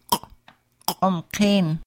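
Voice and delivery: "umkin" after a hard rounded k. Shown as a demonstration. Teacher modelling glottal rounded Q for learners, hard kw. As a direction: pop the "k" with rounded lips. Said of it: "a hard Q with rounded lips".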